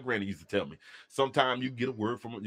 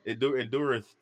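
preacher voice. Acted. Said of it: "country preachers just make words up".

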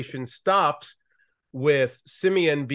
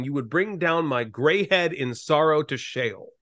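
steady, measured Bible reading; scripture reading. Acted. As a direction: read Genesis aloud to the listeners.

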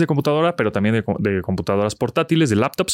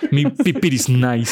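mock old-fashioned slang; slower than usual. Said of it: "me oí súper chavorruco".

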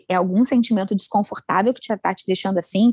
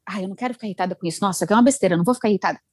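rushed resisting; 3 semitones lower, much faster than usual. Retold or imitated. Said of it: "ao invés de eu ficar".

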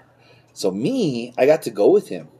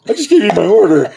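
mock annoyed customer; 9 semitones higher, 6 dB louder, faster than usual. Customer complaining, retold.

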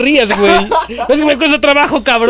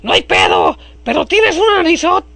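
put-on voice; 4 semitones higher than usual. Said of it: "me olvida la voz".

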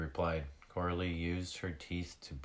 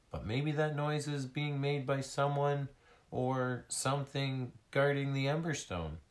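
higher-pitched, insistent arguing; 7 semitones higher, 3 dB louder than usual. Acted. Tag disagreeing with Skyla about the noise, arguing. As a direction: argue the point in a raised pitch. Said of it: "Tag argued".

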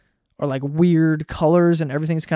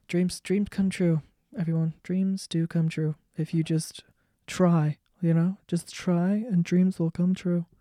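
third grade teacher; 4 dB quieter, slower than usual. Retold or imitated. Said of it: "That's my impression of a third grade teacher".

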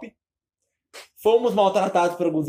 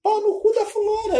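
loud outburst; 3 dB louder than usual. Real, not acted. Ranting about rude influencers.

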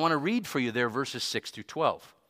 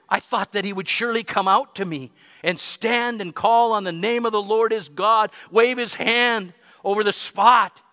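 rising higher and louder, indignant; reading Naaman angrily; 5 semitones higher, 4 dB louder than usual. Acted. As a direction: let Naaman's grievance swell as you read. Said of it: "But Naaman went away angry".

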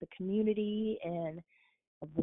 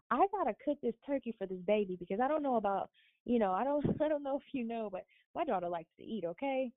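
fast, high, laughing protest about cooking the turkey; excited retelling; 5 semitones higher, faster than usual. Retold or imitated. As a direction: rush it out, amused and flustered, in a higher voice. Retelling her excited reply to boss.

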